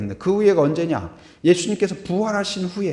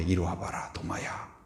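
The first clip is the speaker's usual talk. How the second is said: soft, low, almost whispered call; hushed call; 11 semitones lower, 13 dB quieter than usual. Retold or imitated. Jesus quietly calling Thomas over, softly and low. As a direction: draw him close gently.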